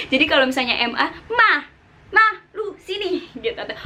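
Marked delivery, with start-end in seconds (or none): 1.3-3.3 "Ma, ma" much higher and falling sharply; falling tone four. Shown as a demonstration. Teacher calling Ma in tone four. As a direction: call "Ma" down hard. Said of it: "itu adalah nada, eh, empat".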